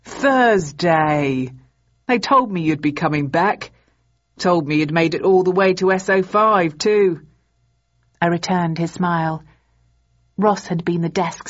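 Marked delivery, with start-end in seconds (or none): 0.0-7.3 cheerful grin. A narrator's reading. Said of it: "broke into a huge grin".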